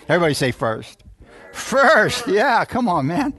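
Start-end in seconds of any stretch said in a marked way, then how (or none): 1.6-3.3 loud, higher-pitched call-out; punchy congregational prompt; rousing call. Real, not acted. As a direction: lead the crowd in an emphatic shout.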